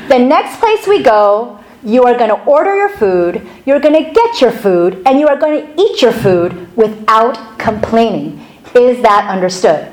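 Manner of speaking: lightly acted stern father laying down the rules; measured, emphatic mock scolding; stern dad. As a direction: put your foot down, in retelling. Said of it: "I'm gonna put my foot down".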